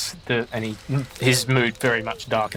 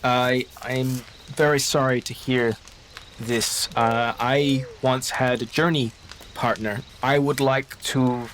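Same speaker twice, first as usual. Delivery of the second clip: slow, halting condolence; careful, sorrowful traveller; slower than usual. Acted. Baptiste offers prayer to the bereaved, slow and halting. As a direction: choose each word slowly and carefully.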